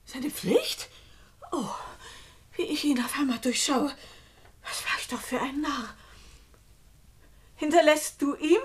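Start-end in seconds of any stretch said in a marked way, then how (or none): 0.0-3.9 "Seine Pflicht?" whispered to herself, voiceless and rising. Acted. Julia realises Frank's betrayal, whispering "Seine Pflicht?". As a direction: breathe "Seine Pflicht?" as the truth sinks in.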